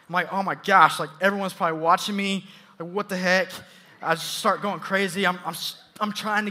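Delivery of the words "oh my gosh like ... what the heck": retold panic, punchy and a bit louder; mildly panicked self-quote; freaking out. Student stuck in bus doors, freaking out. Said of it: "I start freaking out".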